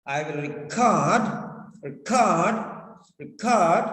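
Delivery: record stressed on its last syllable, re-CORD. Shown as a demonstration. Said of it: "So stress is on cord".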